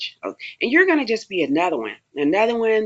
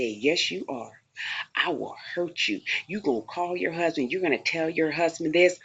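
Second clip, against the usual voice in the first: menacing threat; 6 dB quieter than usual. Retold or imitated. Attacker threatens the new inmate.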